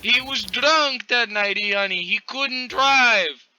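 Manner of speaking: high, slow trembling voice; slow and high, trying to stay steady; shaky monotone attempt. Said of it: "That is not monotone whatsoever".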